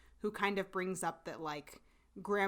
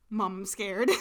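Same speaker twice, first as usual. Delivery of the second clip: mock scared; 6 dB louder than usual. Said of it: "I literally wrote down".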